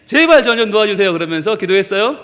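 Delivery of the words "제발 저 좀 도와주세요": acted urgent prayer, raised pitch; lightly pleading prayer; earnest praying. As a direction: rattle off a mock-earnest plea to God. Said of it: "열심히 기도를 합니다".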